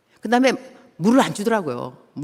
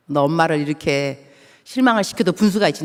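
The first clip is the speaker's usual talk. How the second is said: angry scolding; 2 semitones lower than usual. Retold or imitated. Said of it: "내가 이제 화가 났죠".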